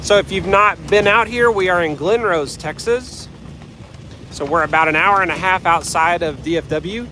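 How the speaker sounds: talking while bouncing along; on a bumpy road. Real, not acted. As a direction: voice jolted by a bumpy ride. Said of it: "bumpy ride".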